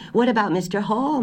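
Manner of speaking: high-pitched burst of a new idea; sudden hopeful query. A narrator's reading. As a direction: blurt the question as it strikes you. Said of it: "Missus Allison asked suddenly".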